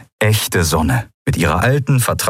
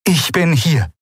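high, falling announcement; announcing; 7 semitones higher than usual. A narrator's reading. The Shayang suddenly appears beside Endriel, announcing. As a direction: declare your arrival in a raised pitch. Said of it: "verkündete die Shayang".

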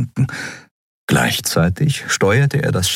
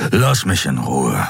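low, slow beastly refusal; low slow growled dismissal; Kero snapping shut; 4 semitones lower than usual. Acted. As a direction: shut the conversation down. Kero shuts her out.

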